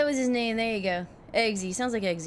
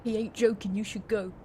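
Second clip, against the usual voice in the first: put-on London accent. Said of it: "it reminds me of the Kingsman accents".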